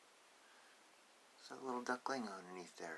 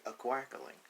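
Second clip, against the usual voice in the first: high, loud and slow duckling protest; loud drawn-out no from the duckling; duckling refusing; 11 semitones higher, 7 dB louder, slower than usual. Acted. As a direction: stretch out the refusal, whiny.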